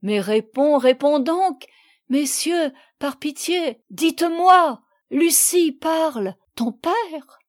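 high, loud, insistent begging; urgent pleading. A narrator's reading. Mother begging daughter and gentlemen for news, pleading. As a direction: plead for an answer, pitch climbing.

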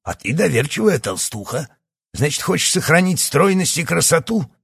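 high, loud taunting; mocking. Doctor mocking Yana loudly.

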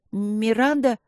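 испуганно, запинаясь на имени; робко выдавить имя, запнувшись; заикаясь. Acted. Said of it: "заикаясь". (заикаясь от страха)

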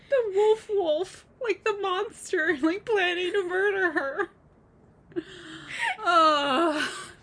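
high, slow words through laughter; real laughter breaking the words; laughing. Real, not acted. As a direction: giggle while telling it. Laughing while retelling plot.

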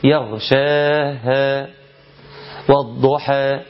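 والضحى cut short with no final long a; clipped ending on والضحى; wrong recitation, final vowel clipped. Shown as a demonstration. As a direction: recite it dropping the madd at the end. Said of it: "لا، هي إيه؟".

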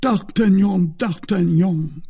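high, loud, drawn-out appeal; anguished cry. A narrator's reading. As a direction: cry the name out pleadingly. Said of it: "cried Aramis".

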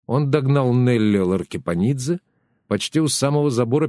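usual speaking voice

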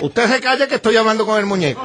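ventriloquist voice. Acted. Ventriloquist snaps back at lepero.

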